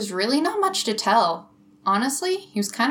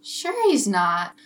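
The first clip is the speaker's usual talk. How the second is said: sarcastic; much slower than usual. Acted. Amy doubts Jake.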